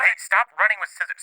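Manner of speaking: put-on high-pitched aside to children; parent calling to kids. Speaker interrupting to warn the kids, scolding. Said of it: "Sorry, the kids".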